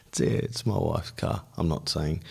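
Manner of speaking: sheepish, half-voiced reply; retold awkward, hushed confession; embarrassed admission. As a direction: stumble through it as if reluctant to own up. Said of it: "in kind of embarrassment".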